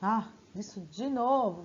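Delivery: slow, weary sarcastic sigh of a line. Shown as a demonstration. Teacher showing the class a sarcastic tone. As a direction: drag it out like you're sick of it.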